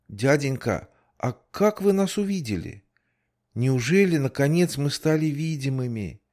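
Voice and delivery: put-on high, wondering kid's voice; amazed child voice. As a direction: ask like a stunned little kid. Child asks policeman amazed. (удивлённый детский голос)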